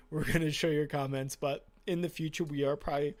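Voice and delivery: talking through burps; words pushed out around a burp. Real, not acted. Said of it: "speaking through burps here".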